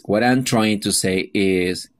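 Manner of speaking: slow, careful model phrase; slow teacher demo of a clarifying phrase. Shown as a demonstration. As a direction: read it slowly, so learners can copy. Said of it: "For clarifying the meaning is".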